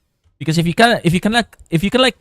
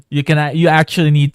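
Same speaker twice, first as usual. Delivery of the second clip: voice crack; 3 semitones higher, 6 dB louder than usual. Real, not acted. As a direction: voice cracking mid-sentence. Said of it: "sorry about the voice crack there".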